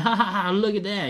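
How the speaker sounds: imitated kid laugh. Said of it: "Dean just laughing like".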